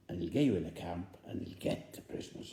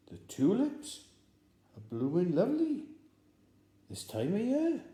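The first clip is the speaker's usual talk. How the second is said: much higher, louder, pressing; insistent code phrase; 11 semitones higher, 6 dB louder than usual. Acted. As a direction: push the password again, meaningfully. Spy repeats code insistently.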